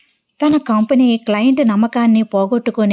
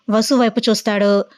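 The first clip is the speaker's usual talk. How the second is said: plain reading voice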